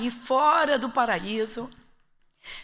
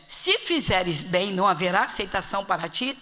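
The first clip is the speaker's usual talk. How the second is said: slow reading; 3 semitones lower than usual. Shown as a demonstration. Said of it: "Dá uma paradinha".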